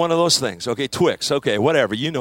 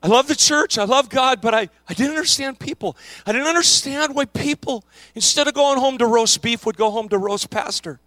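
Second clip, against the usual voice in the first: clerk's hurt; 4 semitones higher than usual. Retold or imitated. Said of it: "And he said".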